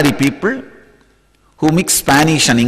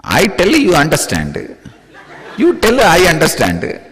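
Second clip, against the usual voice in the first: village Indian English; 2 semitones lower than usual. Shown as a demonstration. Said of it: "the way we speak English in Indian villages".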